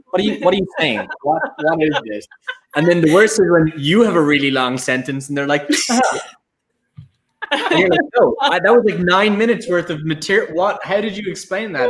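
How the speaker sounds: mock bafflement. Presenter puzzled by a translator talking for minutes, mock bafflement. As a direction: play up confusion at the translator.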